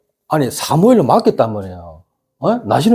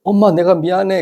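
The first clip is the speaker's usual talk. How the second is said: lightly voiced child, higher pitch; apologetic child; 5 semitones higher than usual. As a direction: imitate your child saying sorry, pitched up. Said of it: "내가 너무 화내보니까".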